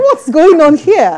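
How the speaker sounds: fake American accent. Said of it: "rolling R where there is no R".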